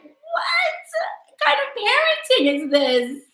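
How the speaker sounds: high-pitched, incredulous squawk; hammed-up outraged question; mock outrage. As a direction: leap up high in exaggerated disbelief. Acted outrage at mother's response.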